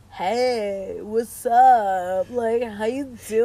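slow, drawn-out flirty come-on; Luke. Retold or imitated. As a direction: imitate a guy laying on a lazy greeting. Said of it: "Luke being like".

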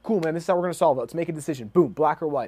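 quick, punchy, upbeat and decisive; pumped problem-solver. Retold or imitated. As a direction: fire it off like a coach who loves a problem. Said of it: "And he's like".

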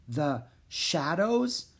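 slow, gently dawning question; soft. A narrator's reading. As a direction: ask slowly and tenderly, rising. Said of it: "Then he spoke softly".

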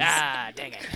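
lightly voiced grumbling prospector; old prospector. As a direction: mutter like a frustrated gold panner. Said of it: "Like a old prospector".

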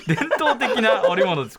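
slow narration breaking into a laugh; travel show narration. Shown as a demonstration. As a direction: narrate slowly, then laugh. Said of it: "これナレーション風です".

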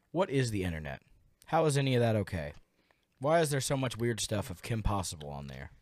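talking around ice cubes; ice in mouth. Real, not acted. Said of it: "Got ice in your mouth?".

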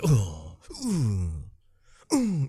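hammed-up pained groans; overdramatic wince. Podcaster mimicking an actor's wince, overdramatic groans. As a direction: groan in exaggerated, drawn-out agony. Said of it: "this very overdramatic wince".

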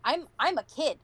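talking around a lollipop; words slurred by a candy in mouth; sucking a lollipop. Real, not acted. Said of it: "and I'm eating, uh, a lollipop right now".

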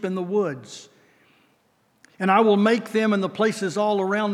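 steady, solemn reading of promise; scripture reading. Acted. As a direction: read it as a blessing over them. Reads long scripture passage.

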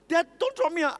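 put-on a toddler afraid of the height; scared little boy. Son on the table begging dad, high fearful child voice.

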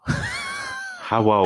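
put-on shrieked caricature Asian accent; very high comic Asian-accented hello; hammed-up fake Asian accent; mock Asian accent. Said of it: "Do an Asian accent".

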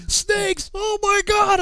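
high, loud alarmed yell; hammed-up shriek of disbelief; shocked shout. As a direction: cry out in mock horror. Sergeant reacts to snakes.

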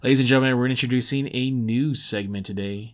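introducing the new segment to listeners with showman flair; showman intro. Acted. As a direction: announce it like the host of a game show.

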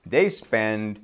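mock angry coach yelling at the referee; angry coach shouting. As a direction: imitate a furious hockey coach, only mildly loud. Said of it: "they're angry for sixty minutes and they're shouting".

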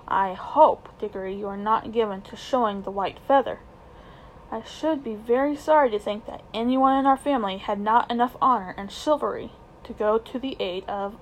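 lofty, condescending uncle; high and mighty. Acted. Uncle lightly lording it over the boy. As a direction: lecture him like a grand benefactor. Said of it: "in a very high and mighty voice".

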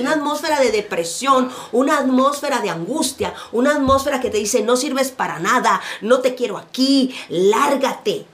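loud, forceful preaching cry; shouted accusation. Acted. Preacher voicing the oppressive atmosphere, shouting. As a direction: shout it out like a hostile voice. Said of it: "Esa es la atmósfera que te grita".

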